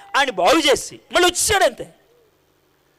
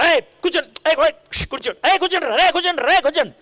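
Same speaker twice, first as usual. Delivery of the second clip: mock hushing shout; 3 semitones higher than usual. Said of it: "అని అరుస్తాను".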